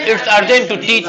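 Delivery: very slow, every word laid out; slow model sentence. Shown as a demonstration. Teacher dictating the answer to the class, very slow. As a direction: say it slowly so pupils can repeat it. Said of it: "पढ़ाना अति आवश्यक है".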